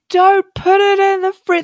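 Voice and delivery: high, urgent plea; pleading shout. Retold or imitated. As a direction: beg them not to. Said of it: "I was just going".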